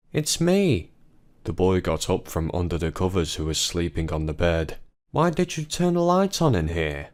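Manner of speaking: put-on a small child woken by the light; boy's voice. Boy character speaking.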